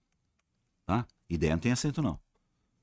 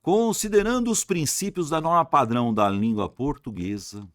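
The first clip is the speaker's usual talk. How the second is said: ordinary delivery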